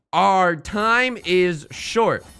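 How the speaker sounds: slow, measured poem reading; slow haiku reading. Shown as a demonstration. Reading the day's haiku to chat, slow and measured. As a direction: read each word slowly like a poem. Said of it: "Here's the haiku".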